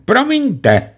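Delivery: smooth and officious; a hint of an unctuous bandit. A narrator's reading. Bandit clerk speaks politely. (úlisně zdvořile)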